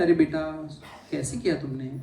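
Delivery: put-on soft, low coaxing, as to a child; mock gentle rebuke. Shown as a demonstration. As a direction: let it drop away softly, far too kind for a scolding. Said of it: "rebuke कैसा होता है".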